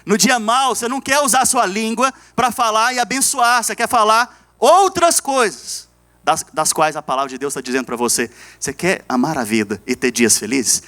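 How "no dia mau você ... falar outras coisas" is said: preaching that climbs in pitch; emphatic preaching. Real, not acted. Pastor warning the church about the tongue, emphatic preaching. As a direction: build to a stretched, higher final phrase.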